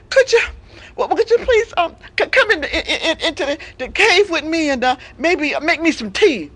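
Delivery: high, halting plea; hesitant invalid begging a favour; wheedling sick lion. Acted. Lion lures the giraffe.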